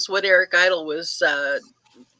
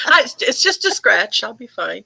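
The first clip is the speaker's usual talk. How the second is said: quoting Eric Idle; 5 semitones higher than usual. Retold or imitated. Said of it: "Eric Idle constantly getting run over".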